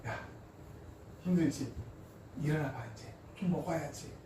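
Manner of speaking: soft, gentle voice of an embracing parent; tender comforting. Acted. God comforting weary Elijah, tender soft coaxing. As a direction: quietly comfort and coax, lightly acted. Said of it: "보듬어 주시고".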